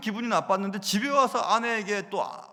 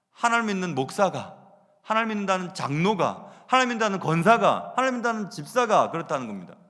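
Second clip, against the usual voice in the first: rising rebuke; 7 dB louder than usual. Real, not acted. Preacher rebuking church members.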